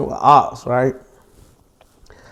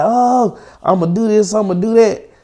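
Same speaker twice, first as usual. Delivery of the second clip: higher-pitched mock threats; retold mad ranting; 6 semitones higher than usual. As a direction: imitate her getting worked up. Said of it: "like, get mad. She like".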